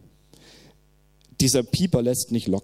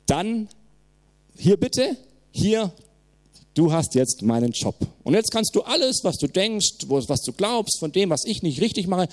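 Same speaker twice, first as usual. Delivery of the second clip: God challenging; 3 semitones higher than usual. Retold or imitated. God hands Bruce his job.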